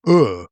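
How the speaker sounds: 'er' with a northern English vowel, as in 'her'. Shown as a demonstration. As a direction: say 'er' where southerners say 'air'. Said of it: "struggled to understand my northern vowels".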